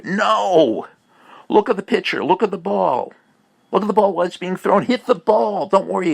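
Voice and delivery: telling a batter to watch the ball, a loud urgent coaching call; coaching shout. Acted. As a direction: bark it at the batter like a coach from the dugout.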